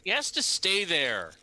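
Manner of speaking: high, desperate pleading; pleading father. Acted. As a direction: beg them to leave the boy. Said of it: "Then he goes".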